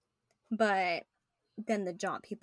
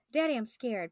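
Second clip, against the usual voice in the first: a hint of a scared little girl, pitched higher and louder; thin child's voice; 4 semitones higher, 5 dB louder than usual. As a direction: lightly voice the frightened daughter asking her dad. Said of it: "Patty said in a thin voice".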